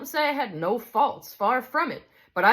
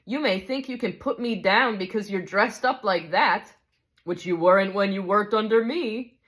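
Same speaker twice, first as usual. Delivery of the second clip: higher and louder, defensive protest; indignant big ghost; 5 semitones higher, 3 dB louder than usual. Acted. Big ghost insists on his rights to the spirit, indignant. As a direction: insist on your rights, stung.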